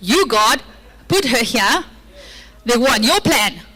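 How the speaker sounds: slow, sulky blame-shifting whine; Adam blaming God and Eve, passive aggressive. Acted. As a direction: pin the blame on God with mock innocence. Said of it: "Passive aggressively saying".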